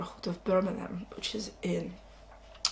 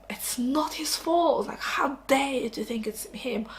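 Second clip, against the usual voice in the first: raised, pitched-up outrage; a teen insisting it's not his fault, with higher, indignant outrage; 5 semitones higher than usual. Retold or imitated. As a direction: protest like a wronged teenager. Voicing teen's indignation.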